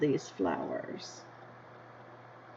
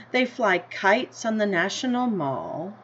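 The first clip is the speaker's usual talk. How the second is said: story reading. A narrator's reading. Teacher reading the class a picture book, in an unhurried storybook voice. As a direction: read it like a picture book to kids.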